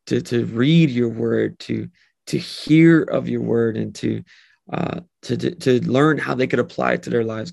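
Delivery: steady, earnest prayer voice. Acted. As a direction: pray over the listeners sincerely. Closing prayer for the group.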